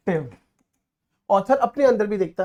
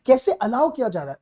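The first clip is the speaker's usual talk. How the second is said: indignant author; 4 semitones higher than usual. Retold or imitated. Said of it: "author बार बार बोलेगा".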